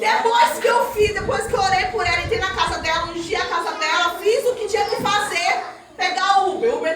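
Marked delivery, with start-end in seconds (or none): 0.0-2.2 loud preaching burst; preacher shouting out the testimony. Real, not acted. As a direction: lift the congregation with a shout. Preacher raising voice.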